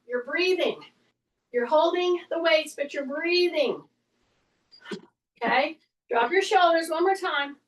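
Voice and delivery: usual speaking voice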